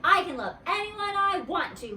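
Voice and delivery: high, loud holler at a rival; loud childish yell. A narrator's reading. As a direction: holler it, defiant. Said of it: "she hollered".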